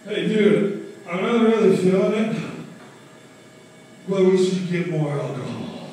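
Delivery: loud eager buddy; mock friend egging on. Friend's pitch, acted quote.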